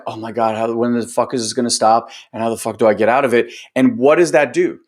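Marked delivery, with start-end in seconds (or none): 0.1-3.5 fast, fed-up mock complaint; mock exasperation. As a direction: mimic someone sick of the process, rushing. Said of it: "You're like".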